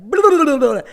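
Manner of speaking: put-on high silly babble for a laughing baby; goofy baby-entertaining babble; silly baby talk. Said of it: "you'll be like".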